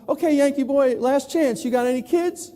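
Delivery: high, eager Texan reaching for a connection. Retold or imitated. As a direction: pitch it up like a hopeful Texan. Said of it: "they go".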